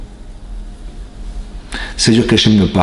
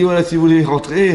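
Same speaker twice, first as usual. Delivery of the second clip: much higher voice, laughing through the words; laughing mock host; 6 semitones higher than usual. Host teasing guest after tossing flowers, high laughing voice. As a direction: tease the guest while giggling.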